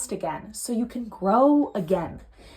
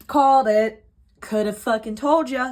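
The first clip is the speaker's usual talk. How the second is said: smug told-you-so; 5 dB louder than usual. Real, not acted. Reader reacts to card.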